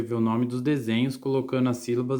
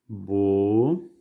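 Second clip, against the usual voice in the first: "Boneca" drawn out as bo, ne, ca with long gaps; syllable by syllable; 3 semitones lower, much slower than usual. Shown as a demonstration. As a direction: say "Boneca" very slowly, one syllable at a time. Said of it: "separar as sílabas".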